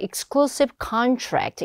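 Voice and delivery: exclusive contract with exclusive stressed on CLU; second-syllable stress. Shown as a demonstration. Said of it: "이름절 강세입니다". (exclusive contract에서 exclusive 둘째 음절 강세)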